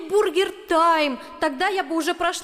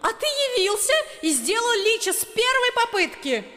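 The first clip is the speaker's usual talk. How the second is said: furious rant. A narrator's reading. Girl ranting furiously.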